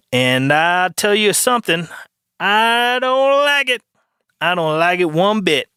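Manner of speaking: mock indignation. Podcaster objecting to Orwellian doublespeak, mock indignation. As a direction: draw it out high, in hammed-up disapproval. Put-on comic protest of doublespeak.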